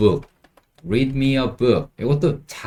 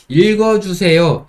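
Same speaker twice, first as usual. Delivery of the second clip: higher, louder pleading request; child asking; 7 semitones higher, 6 dB louder than usual. Shown as a demonstration. A child begging a parent for a story, pleading. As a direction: plead like a little kid. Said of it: "아이들이 많이 쓰는 말".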